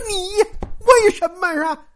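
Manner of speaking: high-pitched indignant demand; acted anger. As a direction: fire it off as an angry accusation. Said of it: "拍桌子就怒了".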